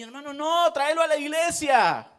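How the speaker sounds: firm pastor command. Retold or imitated. Pastor tells the father to bring his son, firmly. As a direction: press the father to bring the child.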